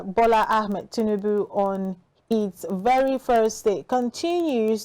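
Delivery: steady, measured newsreader delivery; radio news read. Acted. Radio host reading the morning news, in a news-anchor voice.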